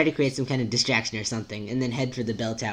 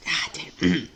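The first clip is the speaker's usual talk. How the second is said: whispered curse; 6 semitones higher than usual. Real, not acted. Flubbed line, muttered to self.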